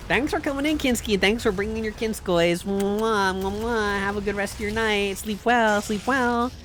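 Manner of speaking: high sweet sign-off with kisses; sing-song goodbye to the raider; high cutesy farewell blowing kisses. Real, not acted.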